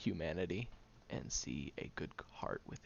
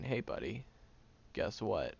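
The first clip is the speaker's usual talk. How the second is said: hammed-up sarcastic lecture, half shouting; mock pep talk to the guy; 3 semitones higher, 6 dB louder than usual. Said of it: "I'm not gonna go up to him and explain".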